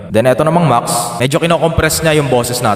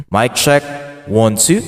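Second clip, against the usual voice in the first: heavy reverb; slower than usual. Shown as a demonstration. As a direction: speak into a big echoing cave. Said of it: "parang nasa simbahan or kuweba na". (boses na parang nasa simbahan)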